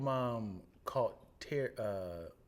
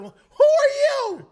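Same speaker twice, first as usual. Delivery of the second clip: much higher, loud, slow shout; slow demanding shout; 17 dB louder, much slower than usual. Retold or imitated. Miss Calhoun demanding who is on the phone, loud slow shout.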